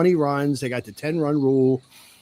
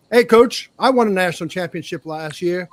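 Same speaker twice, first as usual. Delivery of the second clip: much higher, loud, smug call to the coach; cocky player; 4 semitones higher, 5 dB louder than usual. Pretend. Returning player bragging to the coach, in a loud, higher mock voice. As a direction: pipe up loud and smug, hand in the air. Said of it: "they're all raising their hand".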